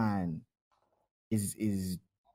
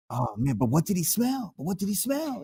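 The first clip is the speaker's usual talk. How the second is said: mock fretting, voice climbing higher on the repeat; stressed-out friend; 6 semitones higher, 4 dB quieter than usual. Retelling his buddy stressing over what the supervisor smelled, mock fretful. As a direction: imitate a worrier, softly rising in pitch. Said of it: "my man was stressing over that shit".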